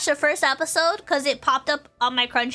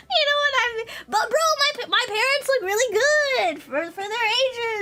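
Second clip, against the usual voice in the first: laughing through words; 11 semitones higher than usual. Real, not acted. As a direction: still cracking up while talking. Laughing at the haunting memory.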